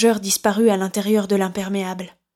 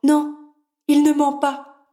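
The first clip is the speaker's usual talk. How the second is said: higher-pitched wife contradicting him; raised, feminine character voice; woman's voice; 5 semitones higher than usual. A narrator's reading. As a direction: answer firmly in a high female voice. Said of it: "dit la femme".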